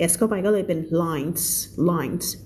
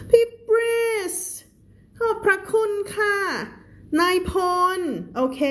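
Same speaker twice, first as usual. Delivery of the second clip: bright thanks; 7 semitones higher than usual. Real, not acted. Cheerful thanks to viewers.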